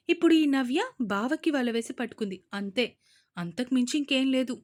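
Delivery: loud, defiant taunting. Acted. Daughter taunting her father, loud and defiant. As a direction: sneer at them boldly.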